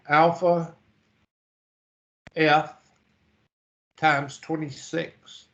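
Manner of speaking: words stretched by a yawn; slow, yawning through the words. Real, not acted. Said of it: "I can't stop yawning this morning".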